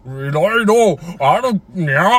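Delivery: slow cat-puppet voice with nya; Nyanchu voice. Pretend. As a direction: end on a playful nya. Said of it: "お、にゃんちゅう。".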